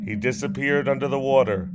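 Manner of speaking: measured dramatic poem reading; poem recitation. Acted. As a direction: recite it like a ballad. Reads his sonnet aloud.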